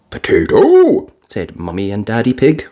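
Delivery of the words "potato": high puzzled question; confused. Acted. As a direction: ask baffled. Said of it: "in confusion".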